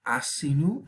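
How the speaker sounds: "Asinu" as A-si-nu; rising "Asinu", first syllable stressed. Shown as a demonstration. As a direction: put the accent on the opening A of "Asinu". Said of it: "el acento aquí sobre la A".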